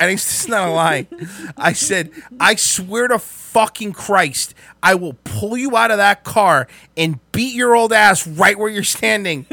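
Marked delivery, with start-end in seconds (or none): 2.4-9.5 slow, slightly raised, emphatic threat; retold angry threat. Angry driver threatening the old man, slow emphatic threat. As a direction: space the threat out with mild heat. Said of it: "I was really mad".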